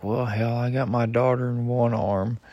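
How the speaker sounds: retold smart-aleck demonstration; smart-ass. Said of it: "I was being a smart ass about it".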